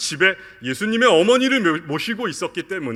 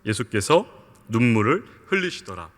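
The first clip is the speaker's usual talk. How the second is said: reading scripture aloud; 7 semitones lower than usual. Shown as a demonstration. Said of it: "같이 한번 읽어볼게요".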